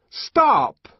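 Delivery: high, loud ringing cry; loud ringing shout. Acted. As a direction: halt the crowd with one word. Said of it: "in a loud and ringing voice".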